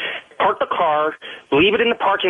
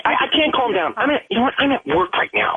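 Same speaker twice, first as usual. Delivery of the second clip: agitated, higher-pitched angry retort; 6 semitones higher than usual. Real, not acted. Boyfriend at work refusing to calm down, angry. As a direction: protest angrily in a raised pitch. Quarrel after told calm down.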